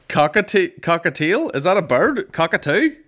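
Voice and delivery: high, loud giggling questions; real laughter; laughing through words. Real, not acted. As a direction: read it out while still cracking up. Still laughing at cockatiel search.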